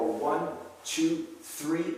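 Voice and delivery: counting on a held breath; tight-bellied count, breath held; holding breath. Real, not acted. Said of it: "I'm holding my breath".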